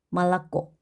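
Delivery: 말랐고 with unstressed o said as a; Russian 말랐고, reduced vowels before a stressed final o. Shown as a demonstration. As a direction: say 말랐고, both early o's as a, stress last. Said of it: "강세 없는 오는 아로 발음을 한다".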